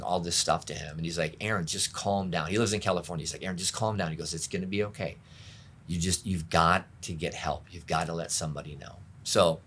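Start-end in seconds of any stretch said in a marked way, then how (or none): 1.4-2.5 softly retold reassurance; quiet, even calming tone; calming friend. Friend soothing him on phone. 3.4-9.0 soft, reassuring retold advice; low-key, gentle urging; calming friend. Friend soothing him on phone.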